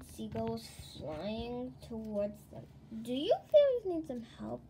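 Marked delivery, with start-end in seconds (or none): 3.0-4.6 loud, higher-pitched call; raised voice hailing someone. A narrator's reading. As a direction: call out an offer of help. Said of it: "it called".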